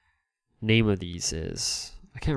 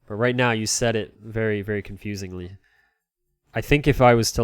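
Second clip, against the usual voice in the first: ordinary talk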